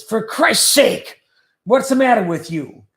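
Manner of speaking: imitating a grumpy father's scolding; grumpy old dad. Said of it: "that was his favorite saying".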